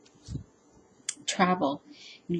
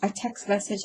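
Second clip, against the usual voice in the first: said through a yawn. Real, not acted. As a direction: talk mid-yawn, words stretched. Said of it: "I'm yawning".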